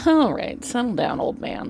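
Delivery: mock scolding, pitched high then fading to a hush; dismissive. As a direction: shoo him off like a grumpy elder. Dismissing an old man.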